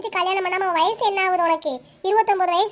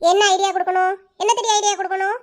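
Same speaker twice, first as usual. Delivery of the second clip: sharp, irritated retort; annoyed elder sister snapping at a stubborn girl; sudden anger. Acted. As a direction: snap back at the girl in annoyance. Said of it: "திடீர்னு ஏன் இப்படி கோவப்படுறீங்க".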